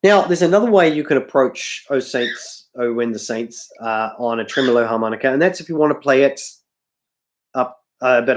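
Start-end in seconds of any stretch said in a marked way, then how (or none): none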